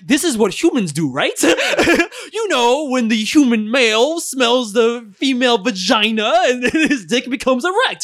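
slow, stiff alien explaining humans; robotic alien describing humans. Retold or imitated. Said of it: "an alien be like".

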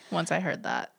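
soft unvoiced whisper. Real, not acted. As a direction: breathe it out quietly. Trailing whisper aside.

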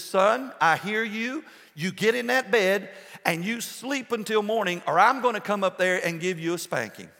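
a hint of a dad hollering upstairs. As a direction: call up the stairs, mock stern. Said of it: "He hollers up there".

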